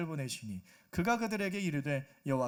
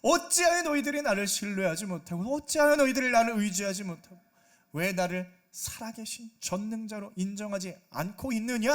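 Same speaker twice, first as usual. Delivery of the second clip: louder, rising rebuke of a wayward people; God rebuking; 6 dB louder than usual. Acted. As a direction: scold them like an angry father betrayed. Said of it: "질책을 하고 계시는 거예요". (하나님이 백성을 꾸짖는 분노한 큰 목소리)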